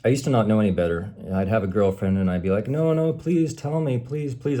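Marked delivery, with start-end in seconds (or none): 2.7-4.6 higher, slow mock begging. Boyfriend begging girlfriend to say what's wrong, mock plea. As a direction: plead like a desperate boyfriend. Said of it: "I'd beg her".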